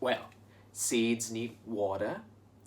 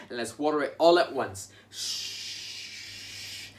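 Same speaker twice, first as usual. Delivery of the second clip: watering sound; 2 semitones higher, slower than usual. Shown as a demonstration. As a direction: hiss like water pouring. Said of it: "Let's water the soil like this".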